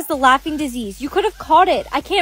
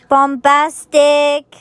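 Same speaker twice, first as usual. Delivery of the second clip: meme voice; 2 semitones higher, 3 dB louder, much slower than usual. Acted. Jimmy says the meme slowly.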